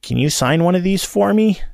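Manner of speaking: put-on high, eager teenage request; eager kid. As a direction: ask shyly, voice pitched high. Teen asks for autograph.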